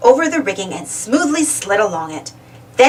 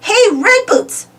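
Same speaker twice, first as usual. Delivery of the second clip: shout; 11 semitones higher, slower than usual. A narrator's reading. Pablo luring the ghost away, shouting. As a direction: shout to distract her. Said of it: "he shouted".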